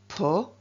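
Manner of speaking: po-te-to, each syllable said apart; split into syllables. Shown as a demonstration. Teacher splitting a word for pupils, syllable by syllable. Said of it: "It has three syllables".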